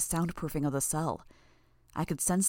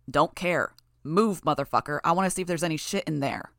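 angry thug; 4 dB louder than usual. Acted. Thug bullies hostage to move.

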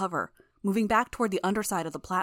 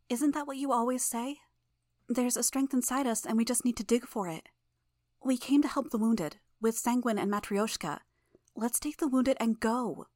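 put-on soft Russian accent, pitched higher; a young girl's gentle Russian accent, set higher; 6 semitones higher than usual. A narrator's reading. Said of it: "her voice soft".

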